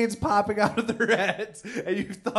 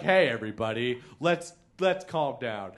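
calming; 5 semitones lower than usual. Retold or imitated. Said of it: "I'm saying things like".

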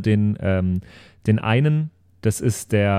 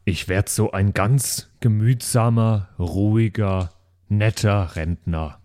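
put-on calm old man; 4 semitones lower, slower than usual. Shown as a demonstration. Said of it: "wie ich sprechen will".

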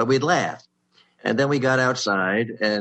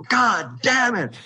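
much higher, slow, drawn-out whiny curse; frustrated groan; 14 semitones higher, 4 dB louder, much slower than usual. Retold or imitated. Rival writer hearing he earns less, a high drawn-out groan. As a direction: stretch it into a pained whine.

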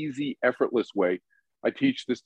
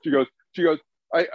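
polite Kate; 7 semitones higher than usual. Retold or imitated. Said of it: "she's so polite".

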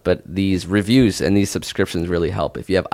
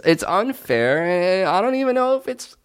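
high, wailing mock sob over Melbourne; mock crying; 11 semitones higher than usual. Host pretends to weep at Australian listeners, high and hammed up. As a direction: whine it like a fake cry. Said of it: "wow, you're crying".

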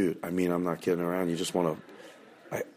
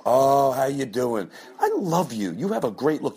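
gushing fake compliments; 6 semitones higher than usual. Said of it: "you go".

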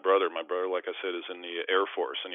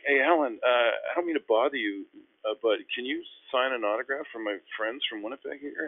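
higher, hesitant favor-asking voice; polite request; 5 semitones higher than usual. Retold or imitated. Asking teammate for an autograph for friends, polite and hesitant. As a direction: ask a favor carefully, pitched up.

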